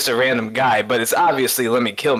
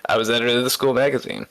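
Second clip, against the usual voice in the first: a hint of a rock singer impression; a rock singer; much faster than usual. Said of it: "go into my rock singer voice".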